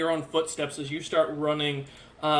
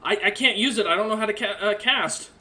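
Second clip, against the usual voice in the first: put-on slightly higher, hesitant kid voice; a hint of a kid, stumbling over the words; lightly voiced kid; 5 semitones higher than usual. Kid offering a magic item to get out, hesitant higher voice. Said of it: "The kid goes".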